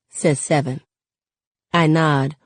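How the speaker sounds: plain reading voice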